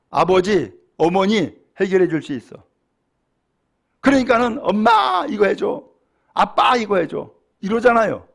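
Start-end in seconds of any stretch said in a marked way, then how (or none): 4.6-7.3 lightly imitated child calling for help; a preacher's hint of a wheedling kid; child pleading. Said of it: "집에서 아이를 키울 때에".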